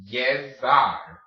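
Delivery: llevar in two separated syllables, Y at the start. Shown as a demonstration. Teacher builds the word, parted llevar with Y. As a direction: sound out llevar slowly, double L as Y. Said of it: "Just put it all together".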